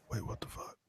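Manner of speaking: stunned whisper; whispered shock. Retold or imitated. Rider retelling being freaked out, whispered shock. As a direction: breathe it out, spooked.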